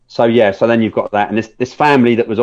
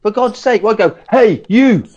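exasperated; 12 semitones higher, slower than usual. Retold or imitated. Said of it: "and I'm like".

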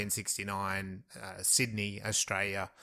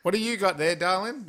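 high, sweet teacher voice, louder; 9 semitones higher, 6 dB louder than usual. Acted. Teacher asks the girl about her model, high sweet voice. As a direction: coo at the pupil like a fond teacher.

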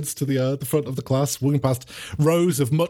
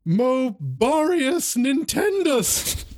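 slow, higher spell-casting voice; tentative incantation; 10 semitones higher, much slower than usual. Acted. Nervous pupil casting a first spell, slow incantation. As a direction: draw out each magic word.

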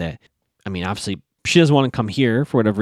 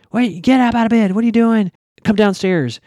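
raised, much higher dad voice; worked up to ten; 10 semitones higher, 5 dB louder than usual. Retold or imitated. Recapper voicing a dad ordering his son out of bed, worked up. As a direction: imitate an exasperated parent at full tilt. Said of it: "He's coming in at, at, like, a ten".

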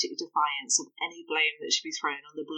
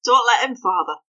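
urgent plea; 6 semitones higher, 7 dB louder than usual. Acted. Hester urges father.

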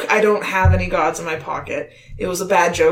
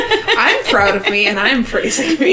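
mock proud; 3 semitones higher, 3 dB louder than usual. Real, not acted. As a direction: gloat playfully about yourself. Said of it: "can we praise me".

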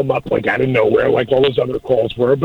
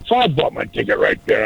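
usual speaking voice

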